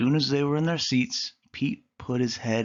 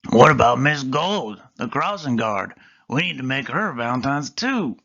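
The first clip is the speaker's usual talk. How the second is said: louder eager start, easing off; mild excited shout; 6 dB louder than usual. Acted. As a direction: call out the idea. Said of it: "Pete practically shouted".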